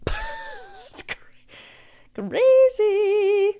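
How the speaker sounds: laughing it out; breaking into laughter mid-word. Real, not acted. Laughing at the absurd report.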